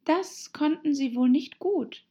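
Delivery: high, mild objection; gentle remark. A narrator's reading. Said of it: "bemerkte Alice sanft".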